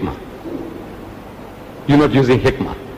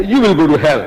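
answering retort in usual pitch, falling at the end; imitated counter-retort. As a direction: answer back firmly, landing the ending. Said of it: "We say".

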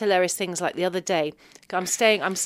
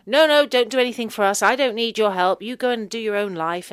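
louder, a light English parent; mock English parent; 2 semitones higher, 7 dB louder than usual. English parents refusing help, louder.

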